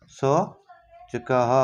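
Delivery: शौचकः drawn out very slowly with the final visarga sounded; slowly spelled out. Shown as a demonstration. Teacher to class, slowly sounding out the built word. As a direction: stretch शौचकः out so the class hears each syllable. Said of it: "इसका बनेगा क्या?".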